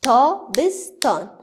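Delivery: تابستان slowly and loudly, syllable by syllable. Shown as a demonstration. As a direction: count out تابستان on your fingers. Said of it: "توسط انگشتای خودم بشماریم". (تابستان را آهسته با شمردن هجاها بگو)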